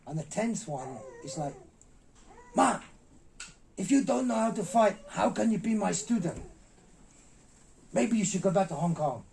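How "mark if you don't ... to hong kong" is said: loud, high scolding of a failing student; retold dressing-down. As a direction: imitate a master out of patience. Master scolds on tenth failed take.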